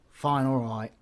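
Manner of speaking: a sulky, resigned "fine, all right"; grudging. Acted. Giving in to the viewer.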